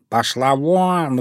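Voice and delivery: slow, menacing cat hiss; threatening hiss. Acted. Cat warning the fox off the fish, slow menacing hiss. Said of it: "угрожающе зашипел Васька".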